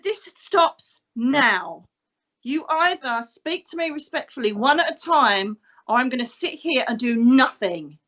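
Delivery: deliberate, firm ultimatum; feisty. Retold or imitated. Medium to unruly spirits in church, feisty firm order. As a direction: lay down the law like an old police officer. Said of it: "real feisty when I need to be".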